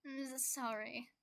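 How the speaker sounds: put-on slow, sleepy drunk apology; drunk mumble. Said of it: "He chokes out a giggle".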